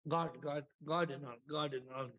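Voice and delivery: devotee. Retold or imitated. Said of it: "This man is saying".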